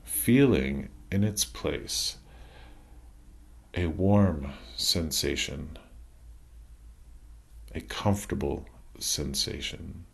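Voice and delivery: calm meditation voice with long pauses between phrases; guided meditation. Acted. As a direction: ease listeners through releasing tension, leaving room to breathe. Leads a body relaxation meditation.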